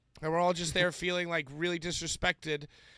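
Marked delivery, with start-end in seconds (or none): none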